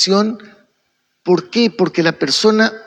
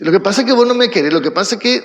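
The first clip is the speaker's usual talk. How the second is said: mock defensive retort; much faster than usual. Proud person deflecting blame onto the listener, mildly defensive. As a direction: imitate someone rushing to counterattack. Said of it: "devuelve con un ataque".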